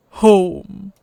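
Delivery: a hint of a gruff alien dog-man; slow, heavy foreign-sounding voice; gruff alien husky. The husky speaking to the stranger, lightly gruff.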